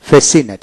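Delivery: ফ্যাসিনেট with the c left silent; silent-letter pronunciation. Shown as a demonstration. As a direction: teach ফ্যাসিনেট with no separate c sound. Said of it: "সেই উচ্চারণ হলো না".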